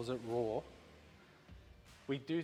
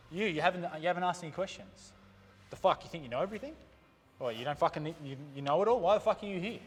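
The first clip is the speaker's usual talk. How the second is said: raised, indignant veteran's scolding; retold chewing-out; 4 semitones higher, 3 dB louder than usual. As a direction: imitate a veteran telling off a silent trainee. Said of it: "He pretty much chewed me out".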